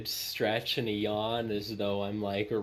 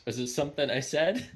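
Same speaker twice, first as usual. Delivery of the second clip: loud musing; 4 semitones higher, faster than usual. Acted. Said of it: "I'm gonna loudly muse".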